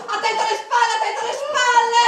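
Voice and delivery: loud, high laughing yell; playful warning shout. Pretend. Play-fighting the guard, loud laughing warning. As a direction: warn of an attack from behind.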